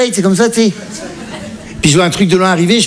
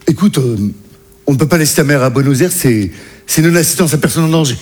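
captain's voice; 4 semitones lower than usual. Retold or imitated. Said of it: "il m'a dit".

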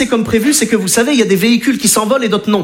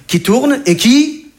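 drawn out; 4 semitones higher, slower than usual. Shown as a demonstration. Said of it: "drawn out spinning demo".

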